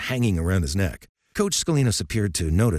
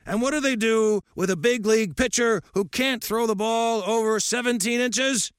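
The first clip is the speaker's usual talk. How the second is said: put-on lightly raised, gruff old coach lecturing; old coach's voice. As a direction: speak as a stern old baseball coach.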